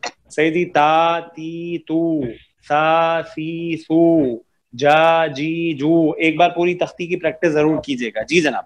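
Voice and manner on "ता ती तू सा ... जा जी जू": each syllable from "ता" to "जू" held long and even; two-count madd. Shown as a demonstration. Teacher reciting the practice board to students, long held vowels. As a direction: drill "ता, ती, तू" onward with stretched vowels. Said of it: "तीनों की हरकत दो".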